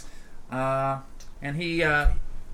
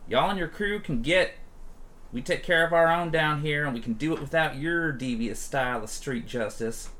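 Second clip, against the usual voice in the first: Rhonda scoffing; 3 semitones higher than usual. Acted. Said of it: "Rhonda scoffs at him".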